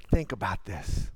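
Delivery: deep, quiet Selah pause; hushed reflective. Shown as a demonstration. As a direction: drop way low and soft, almost a murmur.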